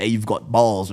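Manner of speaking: loose imitation of a Boston accent; retold line in a rough Boston accent; attempted Boston accent. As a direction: mimic a Bostonian, not very accurately. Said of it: "in his fucking accent".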